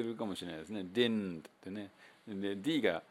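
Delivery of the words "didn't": "didn't" without the second D; a slow, speculative "didn't"; future didn't. Shown as a demonstration. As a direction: drop the middle D in "didn't". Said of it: "二つ目のDが消えてしまって".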